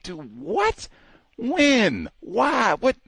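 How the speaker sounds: high rapid-fire shocked questions in Mister Martin's voice. Retold or imitated. Retelling his shock at the guard, as Mister Martin. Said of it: "I sounded like Mister Martin".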